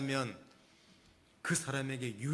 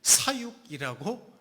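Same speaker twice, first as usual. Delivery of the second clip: 사육이라고 stretched slow and louder; emphatic slow word; 4 semitones higher, 6 dB louder, slower than usual. Real, not acted. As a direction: lean hard on 사육이라고. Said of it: "감히 이런 표현을 써보는데". (사육이라고를 천천히 힘주어)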